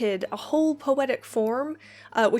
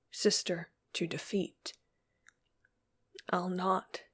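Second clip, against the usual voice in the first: measured, solemn poetry reading; poem recitation. Acted. Teacher reads a poem to her class, solemn recitation. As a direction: read it like a grave elegy, line by line.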